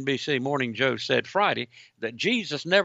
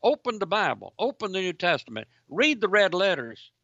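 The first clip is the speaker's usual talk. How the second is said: higher-pitched, sarcastic quoting of a challenge; mock sarcastic; 5 semitones higher than usual. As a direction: mockingly urge them, punching each command.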